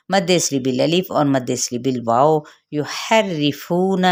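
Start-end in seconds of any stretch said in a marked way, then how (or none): 2.7-4.0 یحرفون drawn out very slowly with a thin ha and a doubled ra; slow tajweed demo. Shown as a demonstration. Teacher models یحرفون slowly for students, a thin ha and a doubled ra. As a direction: sound out یحرفون syllable by syllable, thin ha joined to ra. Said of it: "ہا باریک کرتے ہوئے را کے ساتھ ملائیں گے".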